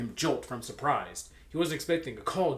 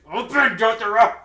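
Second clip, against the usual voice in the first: much higher, much louder caring doctor voice; hammed-up Kakyoin; 10 semitones higher, 15 dB louder than usual. Kakyoin ordering Jotaro to open up, hammed-up. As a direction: overplay a fussy nurse. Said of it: "Kakyoin slid the".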